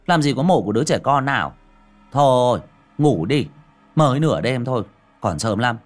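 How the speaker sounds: tired dismissal. Acted. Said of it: "Xiển mệt mỏi nằm xuống mà đáp".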